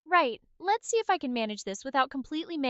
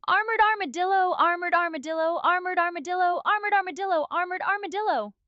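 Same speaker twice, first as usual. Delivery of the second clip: tongue twister rattled off, higher pitch; 5 semitones higher than usual. Shown as a demonstration. Asked for five times fast in accent, steady tongue twister. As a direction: repeat it evenly without a break. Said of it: "five times fast in my accent".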